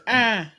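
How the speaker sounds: put-on one brief "ah" like a baby; imitated baby noise. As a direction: mimic a toddler's single little cry. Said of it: "my daughter makes one noise".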